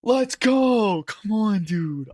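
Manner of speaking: loud, high triumphant shout; excited yell. Real, not acted. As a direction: yell it out in victory. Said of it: "I shouldn't yell".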